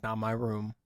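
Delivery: low, disembodied inner voice; voice of consciousness. Pretend. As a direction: speak low as his inner voice. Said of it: "it's the voice of your consciousness".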